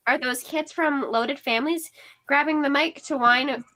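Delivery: talking with a mouth full of corn nuts. Acted. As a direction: chew while you speak, mouth full. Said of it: "She speaks as she sucks and chews".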